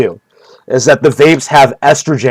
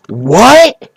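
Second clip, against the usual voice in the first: squeaky high mock disbelief, higher; mock Joe amazed; 10 semitones higher, 3 dB louder, much slower than usual. Imitating Joe Rogan hearing the meth theory, high mock disbelief. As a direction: shoot up into an astonished squeak. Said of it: "That's what Joe would say".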